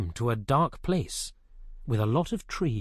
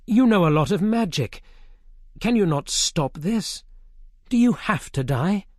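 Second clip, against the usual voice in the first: higher, louder pleading; pleading king; 6 semitones higher, 4 dB louder than usual. A narrator's reading. Arthur pleading with Merlin, upset. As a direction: urge the wizard to stop it.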